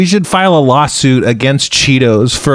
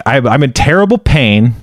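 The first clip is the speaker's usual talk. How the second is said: calm zen resignation. Retold or imitated. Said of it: "I had to get very zen".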